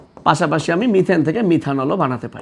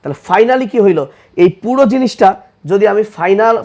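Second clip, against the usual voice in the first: slower; slower than usual. Shown as a demonstration. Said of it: "আমি আর একটু ধীরে বলি".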